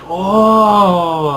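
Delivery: high, loud, drawn-out "oh"; amazed onlookers. Acted. Kids reacting to a coin trick, amazed high cry.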